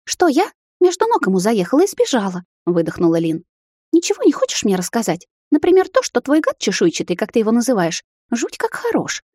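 accusing sister. Acted.

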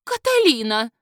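sharp hissed call of a name; hissing woman's voice. A narrator's reading. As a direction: hiss the name out in reproach. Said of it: "Шипящий голос женщины". (шипящий женский голос)

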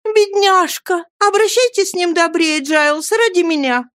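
put-on young lady begging Giles to be kind; tender young lady. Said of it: "как нежен был её голос".

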